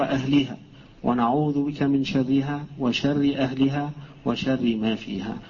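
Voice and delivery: measured, slow recital of a prayer; supplication recitation. Acted. Teacher reciting the Prophet's prayer on entering a village, measured recitation. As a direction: recite the hadith supplication phrase by phrase.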